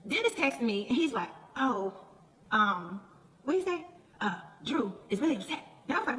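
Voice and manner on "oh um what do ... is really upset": retold hesitant reply. Voicing Dennis's hesitant phone message.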